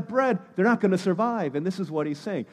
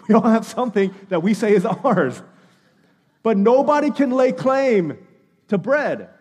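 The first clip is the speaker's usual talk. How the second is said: emphatic sermon build; 2 semitones higher, 6 dB louder than usual. Acted. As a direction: drive the point home to the congregation. Preacher builds to emphatic point.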